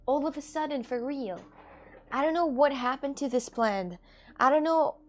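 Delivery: exclaiming in disbelief over the plant; upset about dead plant. Real, not acted. Streamer mourning dead plant to viewers, upset disbelief. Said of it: "I'm feeling so sad".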